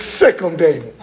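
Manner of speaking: low, growling urge from God; deep commanding sic-him; God urging David on. Acted. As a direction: set him loose like a dog on the hunt. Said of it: "Here it is".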